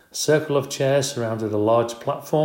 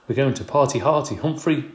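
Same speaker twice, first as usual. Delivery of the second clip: excited shout; 4 semitones higher, 3 dB louder than usual. Acted. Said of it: "he shouted".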